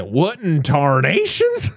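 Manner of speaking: slow drawn-out prospector twang; old prospector. Retold or imitated. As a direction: say tarnations like a grizzled prospector. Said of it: "it sounds like an old prospector".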